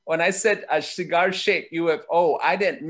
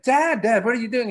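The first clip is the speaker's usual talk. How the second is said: urgent call; 7 semitones higher, 4 dB louder than usual. Retold or imitated. Kid calls after dad going inside.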